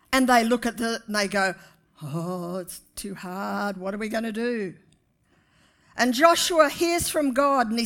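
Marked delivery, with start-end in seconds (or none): 2.0-4.8 mock whining. Mocking the fearful Israelites.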